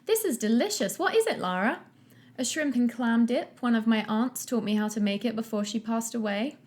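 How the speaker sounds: accidental Irish lilt. Acted. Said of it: "she became Irish".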